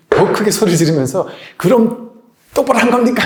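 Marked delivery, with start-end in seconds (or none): 1.6-3.2 louder, higher retort, shouting the worker down; angry shout back. Retold or imitated. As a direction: snap back with full force. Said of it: "화를 버럭버럭 그 자리에서 내는데".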